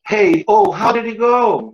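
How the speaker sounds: English line copied from the clip, pitch rising on how; imitating a Friends clip. Shown as a demonstration. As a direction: shadow the actress's American line. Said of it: "Vamos demonstrar aqui". (imitando a fala americana do clipe)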